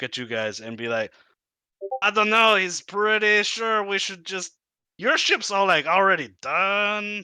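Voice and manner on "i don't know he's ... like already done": high, squeaky little kobold. Acted. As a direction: play a nervous little kobold. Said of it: "the kobold voice is contagious".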